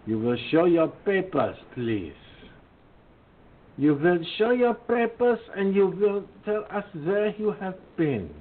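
a hint of a petty tyrant barking orders; mock authoritarian. Host to listeners, mocking officials who demand papers, mock stern.

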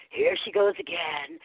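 high-pitched mock exasperation; put-on fed-up complaint; mock judgmental. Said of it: "There's no judgment of him, like".

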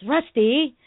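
a rising, reproachful call of the name Rusty; disappointed teacher tone. Retold or imitated. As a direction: lightly imitate a let-down teacher calling Rusty. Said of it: "that disappointed tone of her voice".

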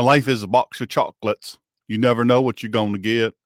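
understated movie-character imitation; Forrest Gump. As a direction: lightly quote it as a simple Southern man. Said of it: "I don't wanna go all Forrest Gump".

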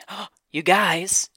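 high, slow, gushing "oh, you guys"; Junior Jules Taylor. Pretend. Reading a Taylor skit line to viewers, high and gushing. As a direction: draw it out, sweet and a bit fake. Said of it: "Junior Jules Taylor saying".

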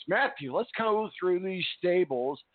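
rough voice, fighting a cold; hoarse sick voice. Real, not acted. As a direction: speak through a sore throat. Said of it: "excuse my voice, I am fighting something".

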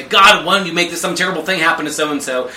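a hint of blind rage thrown at God; retold angry prayer. Praying to God about someone, in a mock rage. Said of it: "blind rage".

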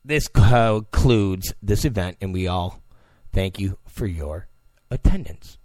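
mock moderator with a cartoon lisp; Daffy Duck lisp. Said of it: "the, uh, Daffy Duck impression".

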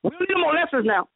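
high, driving sermon delivery; full-force preaching. Real, not acted. Preacher delivering God's promise of blessing, fervent preaching.

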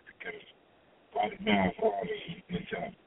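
signal dropping, voice fading in and out; choppy call on an earpiece; radio breaking up. Real, not acted. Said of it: "it kinda sound like you're breaking up a little bit".

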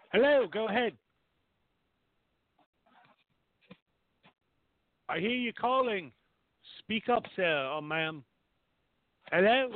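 slight English accent on the phone. Real, not acted. Host coaxing a silent caller to speak, light English accent. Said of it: "when I wanna talk on the phone".

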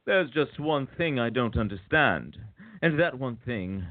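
hammed-up baffled exasperation; exasperated outburst. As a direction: lose patience word by word, peaking on the last. Acted exasperated agent ending the monologue.

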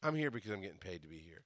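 soft, muttered inner curse; bitter resignation. Retold or imitated. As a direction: mutter it under your breath, fed up. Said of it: "At that point, I went".

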